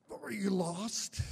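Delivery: a drawn-out, kindly question from a trail stranger; lightly voiced hiker asking lost men; stranger's voice.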